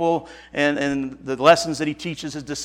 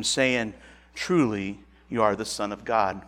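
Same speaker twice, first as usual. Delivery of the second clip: scripture reading; 3 semitones lower than usual. Acted. Pastor closing the gospel reading, subdued scripture reading. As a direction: bring the Bible passage to a subdued end. Reads the scripture passage aloud.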